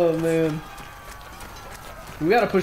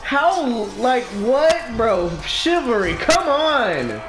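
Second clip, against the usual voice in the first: higher-pitched frustrated rant at the game; raging gamer; 4 semitones higher, slower than usual. Real, not acted. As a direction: vent at the unfair game.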